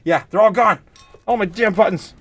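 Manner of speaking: high, squeaky cartoon voice; high-pitched pleading impression; Gingerbread Man. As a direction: squeal in comic panic like a tiny character. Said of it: "yeah, the gingerbread man".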